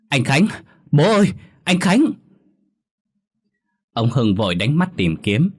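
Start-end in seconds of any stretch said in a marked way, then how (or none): 0.1-2.1 very high, loud wailing scream; crying scream. A narrator's reading. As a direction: shriek for him in horror. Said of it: "khóc thét lên". (con dâu khóc thét gọi chồng)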